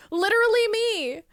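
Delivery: real gleeful agreement; delighted. Real, not acted. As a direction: pop the words out in glee. Relates to viewer comment.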